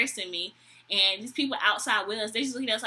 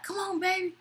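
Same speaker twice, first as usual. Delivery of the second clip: high-pitched imitation of a drunk date; mock drunk boyfriend; 8 semitones higher than usual. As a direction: call her along in the drunk's voice. Drunk date calls her along.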